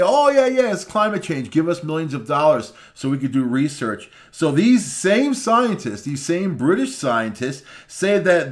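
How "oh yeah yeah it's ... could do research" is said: mock scientist. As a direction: sneer it like a greedy scientist begging. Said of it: "They can't say".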